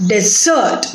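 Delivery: Desert as de-ZERT, the verb; stress on second syllable. Shown as a demonstration. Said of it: "the stress is on the second syllable".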